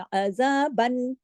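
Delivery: अज़ाबन slowly, ending on a plain clear न; clear open N. Shown as a demonstration. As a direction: sound the न of अज़ाबन openly. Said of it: "पूरे इजहार के साथ खुल्लम खुल्ला". (अज़ाबन, पूरे इजहार के साथ)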